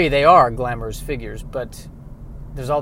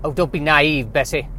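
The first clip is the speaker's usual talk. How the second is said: put-on Southern old farmer. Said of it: "has a southern bent".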